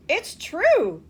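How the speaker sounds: loud, high insistent cry; cried out together. A narrator's reading. Four old people insisting to Charlie, crying out. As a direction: insist all at once. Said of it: "cried all four of the old people".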